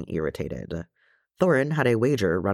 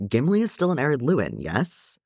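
higher, eager question; excited; 7 semitones higher than usual. A narrator's reading. Nephew seizes on an idea with his uncle, excited. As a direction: raise the pitch with sudden hope. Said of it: "in his excitement".

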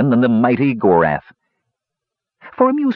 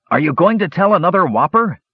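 put-on higher-pitched curious young boy; 6 semitones higher than usual. A narrator's reading. Curly-haired boy asking the storyteller about his tale, young boy voice. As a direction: ask it as an eager little boy. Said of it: "asked a young curly-haired boy".

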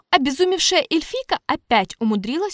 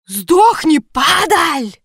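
a possessed roar, loud and rough; rough male bass roar; 6 semitones higher, 10 dB louder, much slower than usual. A narrator's reading. Possessing spirit roaring through the elf, rough bass roar. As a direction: bellow it like a demon inside her. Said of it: "Грубый мужской бас".

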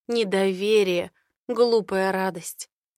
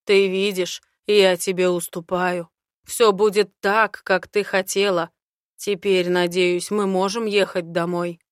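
slightly louder, lightly voiced man; a hint of a confident dragon man; Aaron's voice; 5 dB louder than usual. Aaron's held voice. (уверенный мужской голос)

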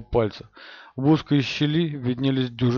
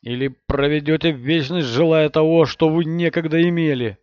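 threatening shout; 4 semitones higher, 5 dB louder than usual. Acted. Villain threatening through door.

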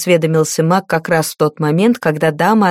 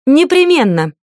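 higher, firm heated promise; weighty, still angry; 7 semitones higher than usual. A narrator's reading. Cora promises Liata, firm and heated. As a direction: promise it firmly, still boiling. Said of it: "ещё кипя гневом, веско пообещала".

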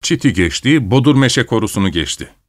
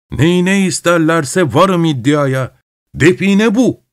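eager treasure talk; 6 semitones higher, slower than usual. Acted. Grandfather sure he found treasure.

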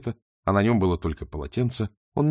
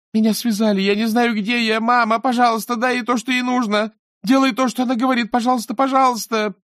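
very high, loud terrified begging; desperate, frightened plea; 13 semitones higher, 5 dB louder than usual. Acted. The captive stepdaughter on a phone recording begging mama, terrified plea. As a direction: beg through panic for mother's help. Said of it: "отчаянный и напуганный голос своей падчерицы".

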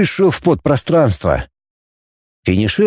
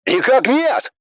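high, hurried officer voice; rapid reply; 11 semitones higher, slower than usual. Acted. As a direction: rattle it off. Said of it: "зачастил Нупуру".

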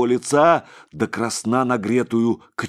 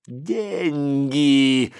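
yelling; 5 semitones higher than usual. A narrator's reading. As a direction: bellow "Деньги" at him. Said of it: "вопил тот, что сзади".

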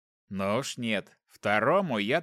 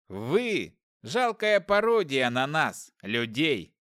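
scornful sneer; slower than usual. Acted. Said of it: "усмехнулся я".

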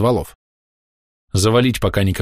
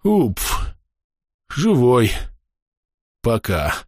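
winded gasp; 3 semitones higher, much slower than usual. A narrator's reading. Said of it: "С трудом выдохнул Андрей".

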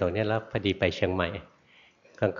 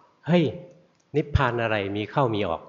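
retold scolding, only the first word truly raised; snapped rebuke. Old master monk scolds the meditating student, mild mock snap. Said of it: "โดนท่านตะคอกเอา".

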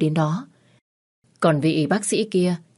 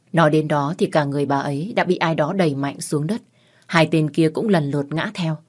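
usual speaking voice

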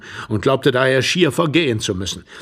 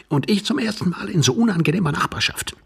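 high-pitched, testy retort; testy younger man, pitched up; irritated stranger; 8 semitones higher than usual. A narrator's reading. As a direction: snap back in a high voice.

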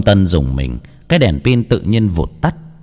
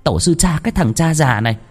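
furious wife; 9 semitones higher than usual. Acted. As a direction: tear into the old man, fuming. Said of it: "Bà vợ xoa mông bực tức".

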